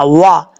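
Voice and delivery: वा with full round lips; tajweed drill. Shown as a demonstration. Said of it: "वा नहीं पढ़ना".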